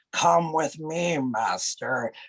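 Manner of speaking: very slow-paced creepy servant; Riff Raff. Retold or imitated. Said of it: "he's very slow paced".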